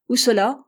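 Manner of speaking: captain pressing the American, insistent; insisting. Acted. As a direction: demand an answer again. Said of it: "fit-il en insistant".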